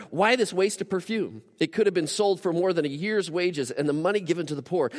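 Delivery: acted protest at the waste; indignant. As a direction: read it out as a retold complaint. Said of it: "saying indignantly to one another".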